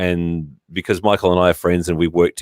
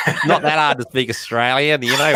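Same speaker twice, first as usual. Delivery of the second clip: laughing; 6 semitones higher than usual. Real, not acted. Laughing while teasing.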